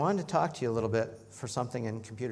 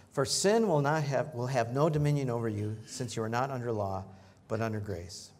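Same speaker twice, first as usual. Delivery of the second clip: scripture reading; 4 dB louder than usual. Acted. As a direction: proclaim the verse to the congregation. Reads scripture aloud.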